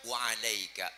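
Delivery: unruffled, restrained answer; calm reply. Acted. Prophet answering a curse without anger, calm reply. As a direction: return it without any heat. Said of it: "Jadi nggak usah ngegas".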